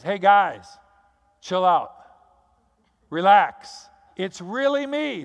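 loud, high, breezy reassurance to friends; hammed-up everyday buddy voice, calming them down; casual Jesus. Jesus telling his frightened disciples to chill out, loud and high. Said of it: "What he's saying is".

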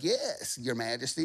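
crony simpering to the king; mock cronies. Advisors fawning to the king as cronies. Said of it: "They're like".

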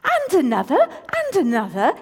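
thrilled cry to the sky; exclaiming. A narrator's reading. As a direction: call out each new star. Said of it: "exclaimed Aram".

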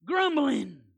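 loud punched answer; preached shout. Real, not acted. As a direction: shout the word like a verdict. Preacher answers his own question.

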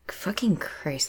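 whispered, slow and horrified; whispering. Real, not acted. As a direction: breathe it out in disgust. Horrified at police jargon.

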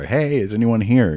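dad hollering at a closed door; calling out at a door. Retold or imitated. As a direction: call through the door to anyone inside. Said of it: "my dad was banging on the door".

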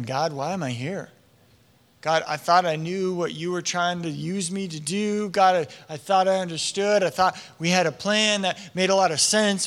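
low, subdued questioning of God; wondering. Acted. Saul wondering to God after ten years, low and subdued. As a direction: quietly puzzle aloud in prayer. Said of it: "to be wondering".

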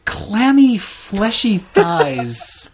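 slow, laughing disgust. Real, not acted. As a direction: draw out the disgust. Disgusted about toilet seats.

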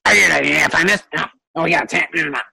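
lightly voiced chattering goblins; little goblins jabbering among themselves. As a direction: give a hint of muttering goblin babble. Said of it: "Kind of noises".

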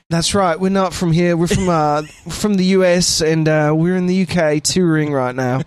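a deadpan joke, laughing through the end; mock deadpan joke. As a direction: play straight-faced, then crack up. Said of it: "I'm like".

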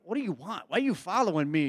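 imitating a mildly irritated questioner, pitch swinging up and down; mock annoyed. Jesus questioning two men trailing him, acted a bit annoyed. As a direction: put on a bit of annoyance at being followed. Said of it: "kinda sound like Jesus was a bit annoyed".

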